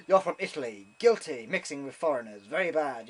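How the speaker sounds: loud start, settling into mock disapproval; lightly acted judge passing sentence; stern judge. Judge to a visitor from Italy, mock-stern.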